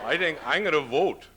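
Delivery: voter. Retold or imitated. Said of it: "You know".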